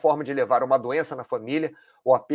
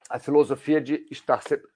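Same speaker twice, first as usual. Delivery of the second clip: choking mid-sentence; words caught by a choke in the throat. Real, not acted. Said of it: "me engasguei aqui".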